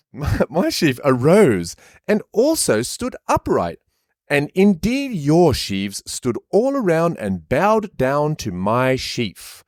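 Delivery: put-on high, slow posh boy boasting; a smug rich kid showing off his dream. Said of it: "posh kid's voice".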